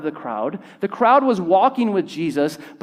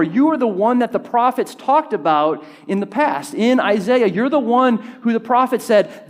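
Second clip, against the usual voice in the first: excited declaration; 4 semitones higher than usual. Acted. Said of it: "This was like".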